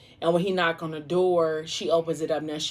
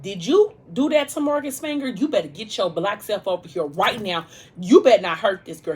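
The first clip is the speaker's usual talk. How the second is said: raised, scolding voice; upset friend's message; 3 semitones higher, 5 dB louder than usual. Retold or imitated. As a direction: tell him off, pitched up and loud. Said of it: "she was upset at Messiah".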